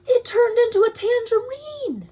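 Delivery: thrilled storybook reveal; amazed exclamation. Acted. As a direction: burst out with delight. Amazed reading of eclipse.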